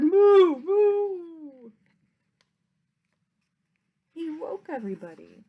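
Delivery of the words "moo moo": loud, high mooing; cow moo. Acted. The confused cow moos at the sneeze, loud moo. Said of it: "who muttered".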